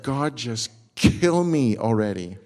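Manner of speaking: slow, dragging mock despair; fed up. Jonah in the heat begs God, slow and fed up. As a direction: moan it out, exhausted. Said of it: "He's baking".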